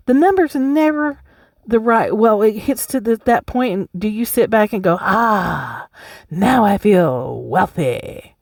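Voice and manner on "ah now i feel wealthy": mock contented sigh. Mock quote of imagined satisfied self.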